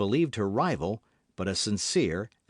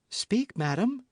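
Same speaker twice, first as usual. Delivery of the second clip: high insistent command; energetic demand; 10 semitones higher, slower than usual. A narrator's reading. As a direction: press her for the truth. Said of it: "with an energy".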